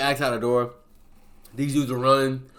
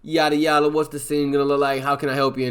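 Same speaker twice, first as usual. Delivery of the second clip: lifted, louder eager host voice; eager chatter; 5 semitones higher, 6 dB louder than usual. Retold or imitated. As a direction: hype up the planning talk. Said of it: "they're talking about".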